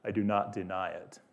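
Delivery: soft, restrained admission; calm. A narrator's reading. Aslan admits the witch is right, calmly. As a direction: concede it softly, unruffled. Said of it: "Aslan remains calm".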